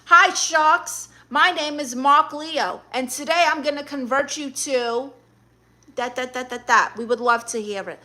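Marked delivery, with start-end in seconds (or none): 0.1-6.9 mock sales pitch, opening high and loud; lightly put-on contestant introduction; Shark Tank pitch. Streamer pitches as her challenger to the Sharks, mock pitch. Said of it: "Pitch us on your religion".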